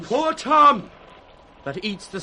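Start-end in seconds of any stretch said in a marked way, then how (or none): 0.0-0.9 loud, higher beggar's wail; wild mad cry. Acted. Edgar as a mad beggar answering, wailing his name. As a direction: announce yourself with a crazed howl.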